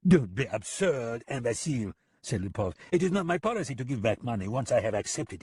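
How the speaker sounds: a smug, taunting killer; mocking foreign gunman. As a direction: talk down to him with a grin. Lipov's character voice.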